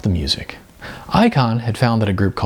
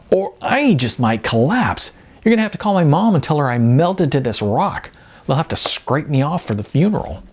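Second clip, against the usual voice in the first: a hint of playful exaggeration; dramatic Jasmine; 5 semitones higher than usual. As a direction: ham up melting in the heat. Jasmine jokes she will melt.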